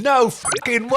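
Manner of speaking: loud, high broad Aussie bogan; bogan Australian accent. Retold or imitated. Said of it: "in a really bogan, uh, Australian accent".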